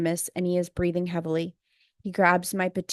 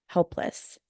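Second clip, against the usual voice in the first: whispered; 4 dB quieter than usual. Real, not acted. Feeling powerless, trailing off.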